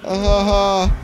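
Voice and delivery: slow, high hammed-up ha ha; mock villain laugh. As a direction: cackle like a cartoon villain. Mocking laugh at the game.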